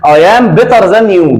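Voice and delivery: drawn out for the class; slow example. Shown as a demonstration. Teacher giving the irregular example, slowly. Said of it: "تقول لي مثلًا إيه؟".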